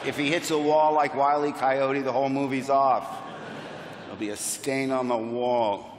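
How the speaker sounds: low, unimpressed mutter of a film boss; deadpan low-voiced worrier; George. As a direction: grumble it low and dry, killing the fun. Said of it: "George was like".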